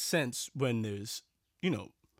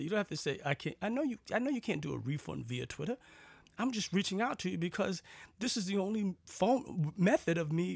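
higher-pitched, exasperated comeback; exasperated retort; 5 semitones higher than usual. Retold or imitated. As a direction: vent back at the obvious, pitch riding up. Venting back at the support agent.

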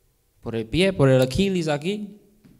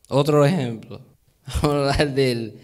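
ordinary talk, nothing marked

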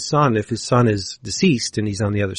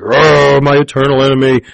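louder, gloating mock villain; hammed-up villain show; 3 semitones higher, 5 dB louder than usual. Humongus gloating at his eternal enemy, louder hammed-up villain. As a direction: play the big bad for show. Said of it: "Humongus puts on a good show".

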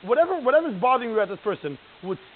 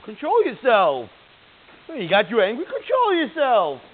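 imitating stern scolding; 5 semitones higher, 8 dB louder, slower than usual. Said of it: "some people will think".

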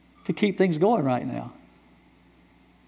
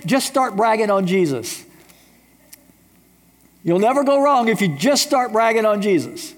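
lightly voiced old preaching professor, raised and emphatic; old professor's advice; 7 semitones higher than usual. Professor Olin Hay advising young preacher boys, emphatic. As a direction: hand down the advice like a fond old teacher. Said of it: "He said".

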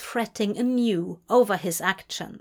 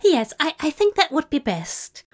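higher, startled, stumbling agreement; hasty agreement; 6 semitones higher, 4 dB louder than usual. A narrator's reading. Startled angel agrees to part from demon, hastily. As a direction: agree in a fluster. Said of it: "Aziraphale hastily agreed".

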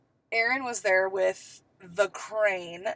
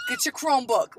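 higher-pitched mock New York order; put-on New York accent; 5 semitones higher than usual. Teacher to students after a night out, mock New York accent. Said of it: "There's that New York accent".

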